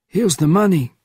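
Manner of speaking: a hint of a weary old spy at four in the morning; old man roused from sleep, a touch testy; elderly Bernardin, woken. Bernardin arriving at room.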